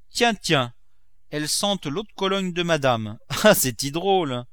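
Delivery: high, loud, delighted cook; amused servant Nanon. Acted. Servant smelling cologne on the boots, amused high exclamation.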